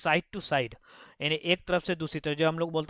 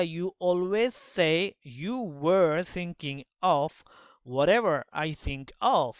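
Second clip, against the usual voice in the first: snapped; much slower than usual. Acted. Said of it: "She snapped".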